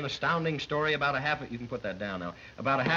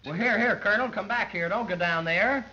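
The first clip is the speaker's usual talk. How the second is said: mock alarmed call; 6 semitones higher than usual. Announcer calls back the diving colonel.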